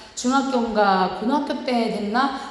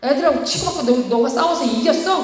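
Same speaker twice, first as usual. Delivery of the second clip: alarmed questioning; 4 semitones higher than usual. Retold or imitated. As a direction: fire the questions in shock. Mother alarmed son fought.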